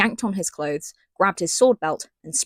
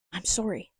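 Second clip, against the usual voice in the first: whispered; 7 dB quieter than usual. Acted. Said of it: "Celaena whispered again".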